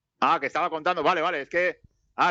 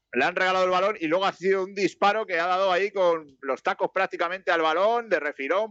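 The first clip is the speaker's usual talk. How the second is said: slightly raised commentary, stretched at the start; live play-by-play; 4 semitones higher, slower than usual. Acted. Commentator explains the gifted ball and shot, measured play-by-play. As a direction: recap the shot in a commentator's cadence.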